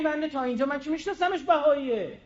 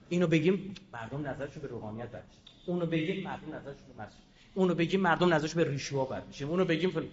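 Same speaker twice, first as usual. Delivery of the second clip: lower, quicker sing-song list of fears; mocking timid excuses; 7 semitones lower, 7 dB quieter, faster than usual. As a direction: rattle off the excuses with disdain. Mocking expedient officials' worries.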